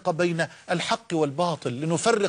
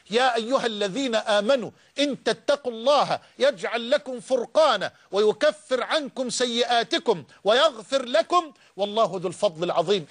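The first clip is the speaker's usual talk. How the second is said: Quran recitation; 2 semitones higher than usual. Acted. Recites the verse.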